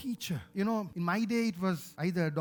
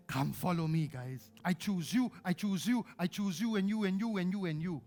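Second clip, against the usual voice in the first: tender Jesus voice; 2 semitones lower than usual. Acted. Voicing Jesus choosing disciples.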